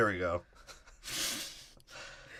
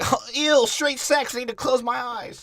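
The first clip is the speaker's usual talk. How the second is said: much higher, disgusted mock voice; prissy falsetto; 11 semitones higher than usual. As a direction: squeal it out in fake disgust.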